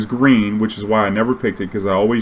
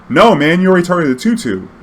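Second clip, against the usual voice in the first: insistent refusal; 7 semitones higher, 5 dB louder than usual. Retold or imitated. Voicing opponent refusing.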